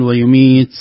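ويميت ending in an s-like hiss, "ts"; overhissed final ta. Shown as a demonstration. Teacher warns against hissing like seen, overdone whisper. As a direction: let the ت of ويميت run into a sibilant s. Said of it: "لا يكون مثل همس السين".

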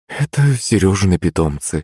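ordinary delivery, nothing marked

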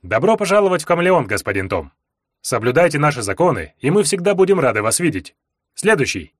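scripted cheery welcome; bright customs clerk greeting; rehearsed cheerful. Acted. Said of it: "заучено радостным голосом".

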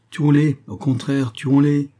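high, loud, fierce urging; urgent exhortation. A narrator's reading. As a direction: urge them on ruthlessly. Exhorte à crever les chevaux. (exhortation vive et forte)

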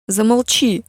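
put-on loud desperate scream of a girl; shouting. Lia screaming at her mother to shut up. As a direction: scream it at her to make her stop. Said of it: "закричала Лия".

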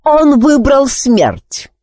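slow, high, gloating pronouncement; triumphant, drawn-out verdict; smug. A narrator's reading. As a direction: relish the sentence slowly. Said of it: "с довольным видом пробормотал ведьманюх".

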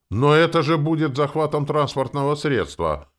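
loud, high-pitched shocked protest; alarmed exclamation. A narrator's reading. Coachman protests the seizure of his carriage, aghast. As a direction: exclaim in wide-eyed disbelief. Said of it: "воскликнул возница, округлив глаза".

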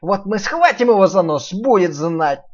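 loud bragging piglet. Acted. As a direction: brag loudly. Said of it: "добавил Нуф-Нуф".

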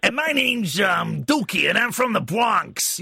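mock New York Bronx accent, slowing at the end; a light, badly faked Bronx accent. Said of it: "we're both terrible at accents".

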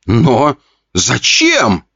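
stunned question. Acted. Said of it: "ошарашенно спросил парень".

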